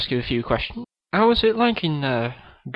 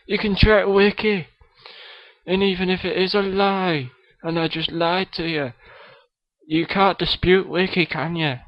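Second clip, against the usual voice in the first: a kid's hammed-up Scottish accent; Billy Connolly impression; 3 semitones higher than usual. Guest Billy Connolly greets the podcast host, mock Scottish accent. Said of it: "Billy Connolly is on the show".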